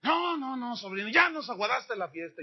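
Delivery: a sulking aunt waving off her nephew; mock aunt insisting.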